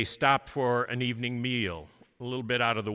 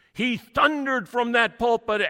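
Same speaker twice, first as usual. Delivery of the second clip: booming; 11 semitones higher, 9 dB louder than usual. Acted. Describes thundering preacher.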